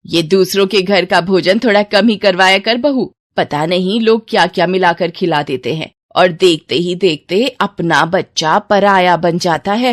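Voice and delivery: a hint of the disapproving aunt; meddling old aunt. Aunt warning mother about neighbours' food, loud disapproval.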